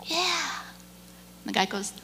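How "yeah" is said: lightly voiced easygoing kid, higher; a breathy, pleased little yes, imitating him; happy young man. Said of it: "He's so happy".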